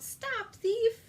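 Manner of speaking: high, loud gardener's yell; angry shout. Acted. Gardener shouts at the fleeing rabbit, loud and high. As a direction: bellow after the thief. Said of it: "calling out".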